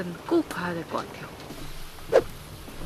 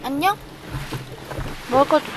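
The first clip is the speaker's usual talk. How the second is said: talking to a cat; 6 semitones higher, faster than usual. Real, not acted.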